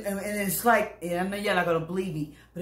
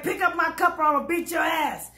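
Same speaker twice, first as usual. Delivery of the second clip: high mock shout; retold demand; 8 semitones higher than usual. Big woman demanding her cup, mock shout. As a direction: yell the demand.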